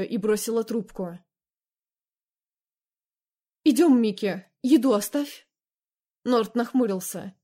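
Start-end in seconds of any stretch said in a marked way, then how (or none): 3.6-5.5 put-on sharp, firm order to a child; stern call. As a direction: call her away firmly. Mother ordering daughter away.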